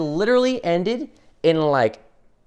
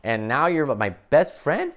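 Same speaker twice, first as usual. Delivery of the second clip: mildly freaked out; 5 dB louder than usual. Acted. Speaker as Superman confronting the man who nearly stabbed him, freaked out. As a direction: grow more disbelieving as it goes. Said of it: "I'd be really freaked out about the guy".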